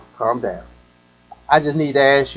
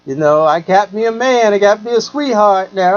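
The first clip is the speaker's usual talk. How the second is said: higher, brighter voice of a happy woman; a lightly voiced lady friend bragging; imitating the woman; 5 semitones higher than usual. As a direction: voice her gushing about her new man. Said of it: "She was like".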